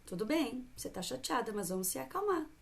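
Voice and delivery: suave e mais baixa, tranquilizando; mãe calma. Shown as a demonstration. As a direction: fale manso para acalmar a filha. (mãe tranquilizando a filha, em tom suave)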